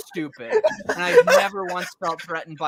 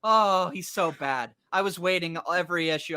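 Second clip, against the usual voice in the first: normal talking voice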